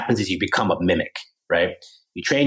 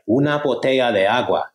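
learner repeating back; 3 semitones higher than usual. Retold or imitated. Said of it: "And you're like".

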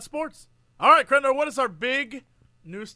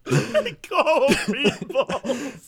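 laughing disbelief; 3 semitones higher, much slower than usual. Real, not acted. Laughing repeat of a phrase.

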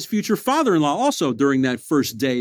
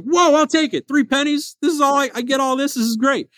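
retold delight; 11 semitones higher than usual. Retold delight at cheap bread.

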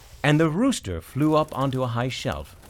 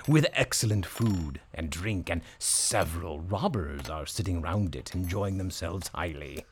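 donkey voice; 6 semitones lower, 5 dB quieter than usual. Acted. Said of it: "replied the donkey".

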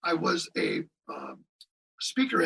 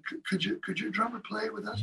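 softer, shy little request; quiet and shy; 8 dB quieter than usual. Retold or imitated. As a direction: ask timidly, almost not wanting to bother. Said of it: "real kinda quiet and shy".

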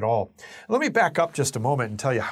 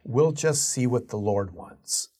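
casual; slower than usual. Retold or imitated. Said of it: "such a casual".

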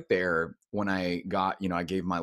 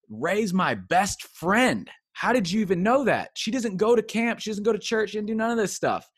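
put-on amazed kid; 12 semitones higher, 6 dB louder than usual. Kid amazed, telling about friend.

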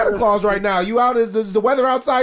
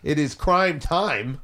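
announcer hype; 5 semitones lower, 4 dB quieter, slower than usual. Pretend. Hyping the caller's fame.

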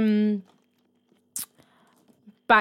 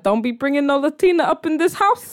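imitating disapproving parents; 6 semitones higher, 4 dB louder than usual. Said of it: "Damien's parents are like".

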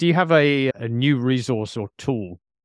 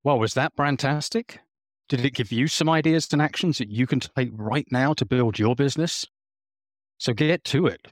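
lively presenter sign-off read; polished, upbeat closing announcement; podcast outro; 3 semitones higher than usual. Real, not acted. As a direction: address the listeners like a show host. Host reads the show's closing.

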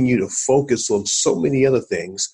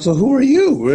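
retold curious question; 14 semitones higher, 5 dB louder than usual. Retold question to Scottish drummer.

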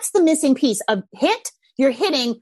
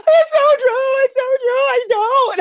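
high, loud relieved gush; imitated parent agreeing; 12 semitones higher, 4 dB louder, slower than usual. Parent confessing to the coach, in a high loud gush. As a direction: gush like a parent admitting the truth. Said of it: "And they're like".

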